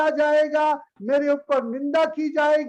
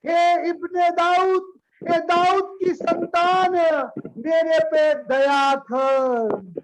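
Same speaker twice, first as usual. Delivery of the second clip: blind beggar's drawn-out plea, mildly raised; imitated crying out; 3 semitones higher than usual. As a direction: call out for mercy, stretching the last words. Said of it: "उसने जोर से चिल्लाया". (पुकारते हुए, खींचकर की गई विनती)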